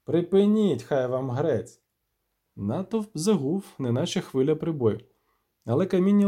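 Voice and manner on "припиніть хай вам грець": the mayor shouting down the stone-throwing crowd; yelling at a crowd. Acted. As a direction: bellow over the crowd noise.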